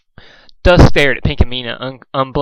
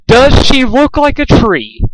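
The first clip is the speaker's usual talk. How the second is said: high, loud, slow menacing repeat; 11 semitones higher, 6 dB louder, slower than usual. A narrator's reading. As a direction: drag each word out as a threat. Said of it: "she repeated slowly".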